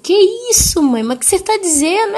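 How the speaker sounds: high-pitched, startled protest; acted shock. Daughter taken aback by her mother's outburst, acted shocked protest. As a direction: react in retold disbelief, voice jumping up.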